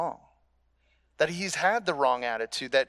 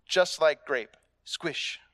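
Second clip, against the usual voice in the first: lightly voiced old karate teacher; mock sensei wisdom, no real accent; quoting Miyagi; slower than usual. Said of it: "how Mister Miyagi says it".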